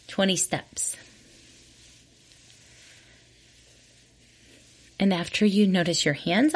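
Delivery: unhurried meditation guiding with long pauses; guided body scan. Real, not acted. Host leading listeners through a walking body scan, calm guided meditation. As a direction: guide them gently from one body part to the next, leaving room between phrases.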